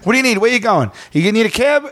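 high, pushy mock-helpful voice; hammed-up eager helper; buddy Joe. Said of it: "to make me laugh".

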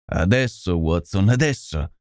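urgent, mildly excited call to Watson; frantic energy. Acted. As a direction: press him on with understated urgency. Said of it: "esclamò Holmes con un'energia frenetica". (urgenza frenetica, appena accennata)

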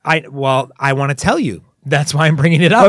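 a touch of real exasperation; getting angry. Real, not acted. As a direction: insist with rising irritation. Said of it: "sounds like you're already getting angry".

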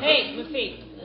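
high slow laughing greeting. Acted. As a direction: call him while still laughing. Teasing while laughing.

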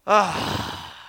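loud, breath-heavy scoff of annoyance; mock an eye-rolling groan; exasperated groan. Seatmate hearing he sat by a preacher, exasperated groan. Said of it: "rolls his eyes right in front of me and goes".

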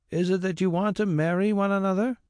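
put-on an old man humouring a fuss; tired old squire. A narrator's reading. Squire wearily humours the carrier.

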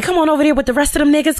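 fast, high, sarcastic brush-off; mocking shoo-away. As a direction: shoo him off sweetly. Mocking dismissal of stranger.

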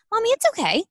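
put-on high, sweet child voice comforting mom; be a small girl reassuring her mother; little daughter's voice. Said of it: "She goes".

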